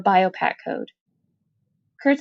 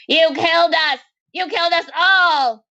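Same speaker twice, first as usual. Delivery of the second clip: high, raised accusing cry; despairing cry; 9 semitones higher, 3 dB louder than usual. Acted. Maudie accuses Kurtz, a high despairing cry.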